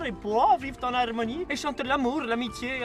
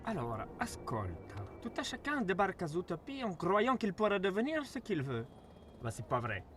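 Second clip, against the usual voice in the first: condescending; 3 dB quieter than usual. Acted. Fox lecturing the rabbit.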